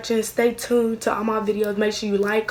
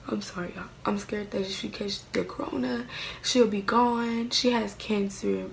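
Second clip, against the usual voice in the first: real crying. Real, not acted. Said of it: "I don't know why I'm crying".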